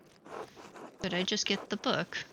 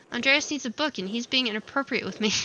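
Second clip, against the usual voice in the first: loud tattling; 3 semitones higher, 5 dB louder than usual. Acted. Tattling to the nun.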